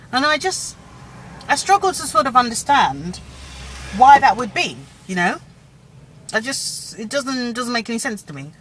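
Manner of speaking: talking while chewing food. Real, not acted. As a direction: speak around a mouthful of food. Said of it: "sorry, chew-, chewing as I'm talking".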